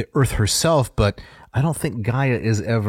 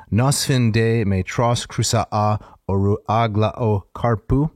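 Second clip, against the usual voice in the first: rolling dactylic verse; dactylic hexameter recitation. Shown as a demonstration. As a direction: recite it in a measured Greek chant. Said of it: "this is in Dactylic Hexameter".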